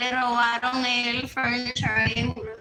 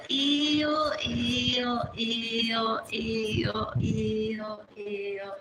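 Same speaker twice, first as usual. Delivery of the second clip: disgusted; much slower than usual. Real, not acted. Repeated disgusted ews.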